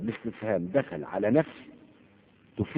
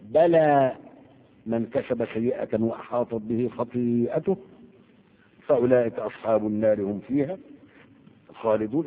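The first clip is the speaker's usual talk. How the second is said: slow measured chanting of a verse; Quran recitation. Acted. Teacher reciting a verse to the class, slow and chanted. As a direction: intone the verse slowly as scripture.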